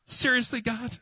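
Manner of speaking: high incredulous cry to God; exasperated cry. Retold or imitated. Startling the homeowner at his door, high exasperated cry. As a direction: throw it up to heaven in disbelief. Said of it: "I'm like".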